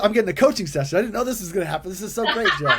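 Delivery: high, quick, gleeful rush of words; delighted surprise. Real, not acted. Host tickled at getting a surprise coaching session, delighted. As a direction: gush with a laugh breaking in at the end.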